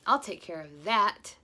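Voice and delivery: slow, loud brave declaration; exclaimed. Acted. Husband vowing to catch the burglar, bold. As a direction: puff up like a hero. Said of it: "exclaimed Mister Forgetful".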